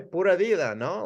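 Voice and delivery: high, giggly "Pura vida, no?"; laughing playful rerun; laughing repeat. Shown as a demonstration. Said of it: "that's how we say it, right".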